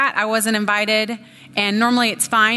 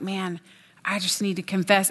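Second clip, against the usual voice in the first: sincere confession; 2 semitones lower, 5 dB quieter than usual. Retold or imitated. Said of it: "kind of confession where it was like".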